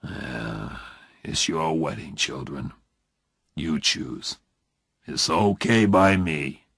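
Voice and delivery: brave disappointment. A narrator's reading. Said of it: "he spoke bravely".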